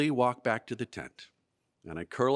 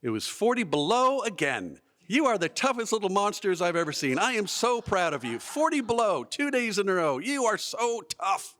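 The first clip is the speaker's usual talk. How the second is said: proud scoutmaster; 8 semitones higher than usual. Retold or imitated. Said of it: "and he says".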